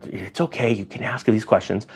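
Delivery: softly imitated handler, soothing; gentle reassurance. Handler telling the student it's okay to ask, softly reassuring.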